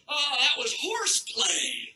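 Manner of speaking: slow, drawn-out mock excuse; mock casual excuse. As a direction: brush it off, stretching the last word. Quoting Sandusky's lame excuse.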